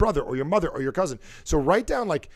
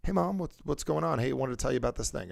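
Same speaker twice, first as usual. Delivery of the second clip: softer, easy hello to Mom; imitated call to mom; 4 dB quieter than usual. Young guy calling his mom, softly transformed. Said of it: "almost like a transformer".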